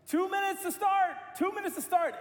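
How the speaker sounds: mock loudspeaker announcement; announcer call. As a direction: boom it out like a race announcer over the crowd. Race announcer calling start time.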